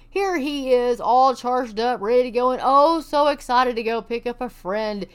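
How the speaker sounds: mock-excited narration of a photo; sarcastic. Real, not acted. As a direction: sell it with sarcastic glee.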